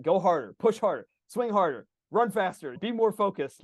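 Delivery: pushy, mildly shouted goading; mock yelling. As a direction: rattle off urgent orders like a demanding coach. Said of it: "my rider's yelling at my elephant".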